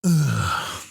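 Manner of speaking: short mock grunt; grunted ugh. Shown as a demonstration. Comedian showing a noise he hates, grunted ugh. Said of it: "people who make this noise".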